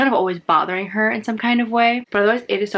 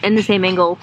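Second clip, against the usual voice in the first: hollering; 3 dB louder than usual. Real, not acted. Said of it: "hollering from work".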